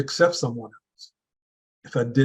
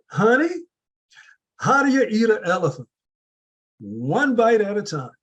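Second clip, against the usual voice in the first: Southern grandmother; 8 semitones higher than usual. Retold or imitated. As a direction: imitate Big Mama's Southern accent, pitched up. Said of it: "that southern accent that she had".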